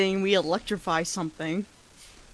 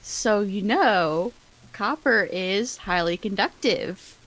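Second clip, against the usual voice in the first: slow knowing quote; slower than usual. Retold or imitated. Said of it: "I mentioned this to".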